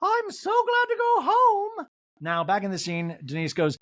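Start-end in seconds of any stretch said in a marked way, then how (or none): 0.0-1.9 high, slow mock Dorit; Dorit impression. Recapper mocking Dorit walking out, high. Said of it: "Dorit walks out the door and goes".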